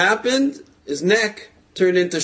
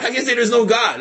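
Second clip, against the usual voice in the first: laughing disbelief; 6 semitones higher, 4 dB louder than usual. Acted. Incredulous rant about the miracle.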